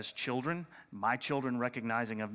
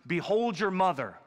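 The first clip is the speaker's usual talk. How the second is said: lightly voiced Jesus; 4 semitones higher, 4 dB louder than usual. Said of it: "he looks at John and he goes".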